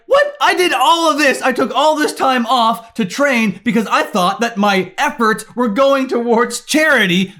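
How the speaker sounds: high, offended yelp on what, then huffy protest; mock indignant whine. Creators protesting the lost charity money, mock indignant whine. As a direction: play the outraged creator who thought it was for charity. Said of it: "all these creators were like".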